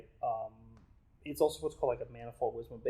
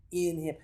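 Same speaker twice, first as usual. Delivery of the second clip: "in him" set apart after a pause, pitched up; "in him" said deliberately, a little raised; emphasis on "in him"; 4 semitones higher, 3 dB louder than usual. Shown as a demonstration. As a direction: lift "in him" as the key phrase. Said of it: "even when you emphasize".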